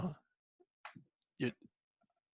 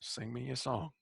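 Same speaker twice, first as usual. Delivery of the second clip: put-on softer Bronx accent line; 10 dB quieter than usual. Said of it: "How do you like my Bronx accent".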